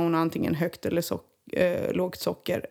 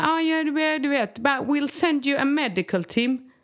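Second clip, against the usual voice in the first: mocking phone operator; 7 semitones higher than usual. Mocking dispatcher calling back.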